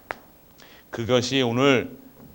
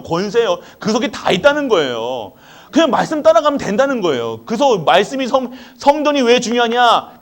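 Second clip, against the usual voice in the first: higher, louder fervent sermon; full-force preaching; 8 semitones higher, 7 dB louder than usual. Real, not acted. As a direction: preach it with rising fire.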